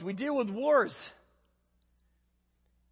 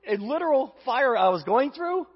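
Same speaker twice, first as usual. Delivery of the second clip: mock exclaim; 2 semitones higher, 4 dB louder than usual. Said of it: "I look at him and say".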